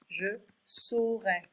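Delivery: slow, clear saurai said as so-ray; careful saurai. Shown as a demonstration. French teacher modelling saurai for students. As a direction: spell out saurai slowly like a teacher. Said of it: "Be careful with this one".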